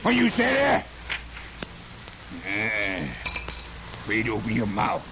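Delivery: put-on high hollering old man driving a mule; bossy old father. Father scolding his son while driving a mule, high hollering. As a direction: holler like a tough old patriarch.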